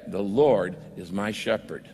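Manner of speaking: soft confession. Shown as a demonstration. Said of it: "you need to say".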